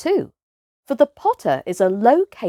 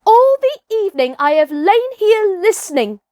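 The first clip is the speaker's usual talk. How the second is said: louder, higher, called over the shoulder; boy calling back defiantly; 11 semitones higher, 5 dB louder than usual. Acted. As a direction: call it back as you leave. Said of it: "he called back over his shoulder".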